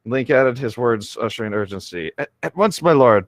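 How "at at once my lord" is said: stammering guard. Acted. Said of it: "Palin stammered".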